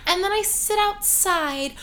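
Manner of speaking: dreamy soft-spoken ASMR murmur. Pretend. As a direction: lull them with a soothing ASMR tone. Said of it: "as I use my soft A S M R voice".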